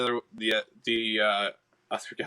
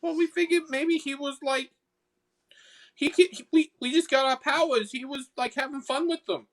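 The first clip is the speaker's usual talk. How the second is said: very high Boston sprite voice; defensive excuse, pitched way up, Boston accent; high little Boston troublemaker; 13 semitones higher than usual. Acted. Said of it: "I'm stuck in the Boston accent".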